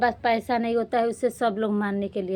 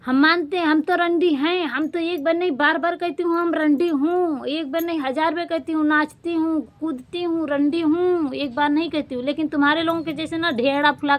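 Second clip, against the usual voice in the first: raised, higher voice hurling it back at the critics; defiant, higher, heated retort; defiant outburst; 3 semitones higher than usual. Real, not acted.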